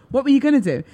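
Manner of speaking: corrected take. Shown as a demonstration. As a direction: ask it again with a laugh. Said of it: "Oh, no, I didn't say it like that".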